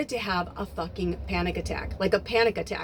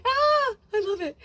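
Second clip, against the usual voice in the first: laughing with delight; 13 semitones higher than usual. Real, not acted. Delighted laughter recalling Santa.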